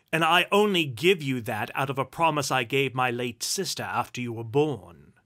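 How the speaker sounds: loud, indignant dressing-down; scolding. Acted. Duke berating his penniless nephew, loud scolding. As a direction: berate him loudly.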